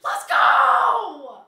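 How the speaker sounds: high, loud hype cheer; loud celebratory cheer; excited cheer. Real, not acted. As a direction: celebrate the gift. Celebrating gifted subs.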